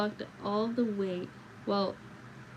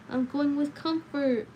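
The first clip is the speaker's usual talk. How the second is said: slow, high, loud announcement; excited shout; 6 semitones higher, 5 dB louder, slower than usual. A narrator's reading. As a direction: shout it to everyone, thrilled. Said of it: "shouted the announcement".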